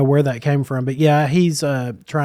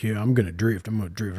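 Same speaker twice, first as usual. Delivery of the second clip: mocking dopey voice; 5 semitones lower, 8 dB quieter than usual. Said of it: "Zach was all like".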